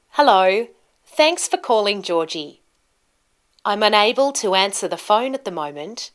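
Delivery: friendly voicemail greeting with lively tune; rising and falling tune. Shown as a demonstration. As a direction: clear ups and downs of pitch. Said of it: "Can you hear that the tone or pitch of my voice goes up and down".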